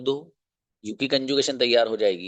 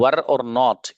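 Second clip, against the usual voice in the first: slowly separated; 6 dB louder, much slower than usual. Shown as a demonstration. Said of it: "मिलाकर".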